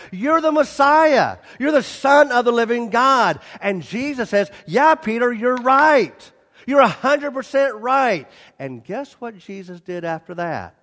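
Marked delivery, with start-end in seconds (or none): 0.1-3.4 excited confession. Acted. Peter blurting confession. 4.7-8.3 affirming Jesus. Acted.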